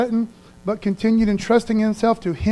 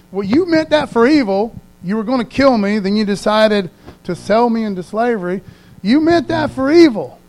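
raised, forceful accusation; accusing confrontation; 2 semitones higher, 5 dB louder than usual. Acted. Joseph to the brothers who sold him, accusing.

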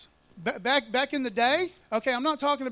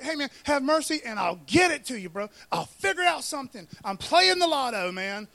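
lively mock plea for more time; pleading debtor; 4 dB louder than usual. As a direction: beg like a dude scrambling for excuses. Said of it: "The dude's like".

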